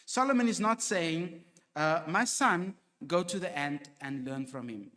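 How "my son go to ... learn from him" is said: a kind father's gentle advice; lightly voiced loving teaching; gentle instruction. Shown as a demonstration. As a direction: instruct kindly, not scold. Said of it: "That is instruction".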